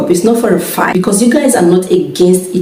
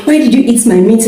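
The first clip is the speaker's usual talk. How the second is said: higher, fast mock accusation; mock accusing; 4 semitones higher, faster than usual. Wife retelling her complaint to husband about the meat, quick mock accusation. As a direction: fire it off like a petty complaint. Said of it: "while I was saying".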